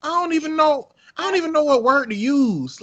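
excited. Real, not acted. Giddy about Obama's swag.

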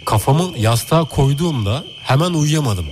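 slow, dramatic horror read; slow spooky telling. Acted. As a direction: draw out Kafamı yastığa koyduğumda hemen uyuyamadım. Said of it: "Hissettir bize".

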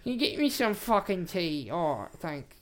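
hammed-up ghost voice, asking casually; Dead Man Bill. Dead man asking for tea, put-on ghost voice. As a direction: play the dead man wanting his tea.

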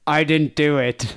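dad's denial. Retold or imitated. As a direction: draw out a mock innocent denial. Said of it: "my dad's like".

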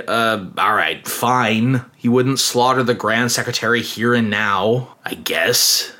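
mock-sullen agreement, sinking at the end; grudging concession. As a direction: give in grudgingly. Rebel grudgingly gives in.

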